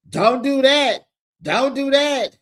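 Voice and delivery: high, loud mock warning; heated warning. Nelle warning the cast member about her mama, high and heated.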